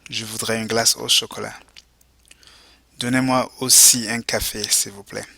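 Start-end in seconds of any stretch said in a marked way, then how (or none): 3.0-5.3 model phrase for repeating. Shown as a demonstration. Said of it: "go ahead and repeat".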